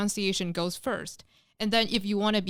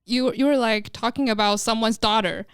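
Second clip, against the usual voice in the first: ordinary delivery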